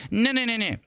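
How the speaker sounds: soft, slow mock reluctance; hushed, dragged-out hand-wringing, sent up; wishy-washy mocking. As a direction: mimic a mealy-mouthed waffler, rising into babble. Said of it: "this world that's like".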